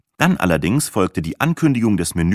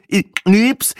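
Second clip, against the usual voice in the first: silly Speckhut; 12 semitones higher, 4 dB louder than usual. A narrator's reading. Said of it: "Speckhut noch ein".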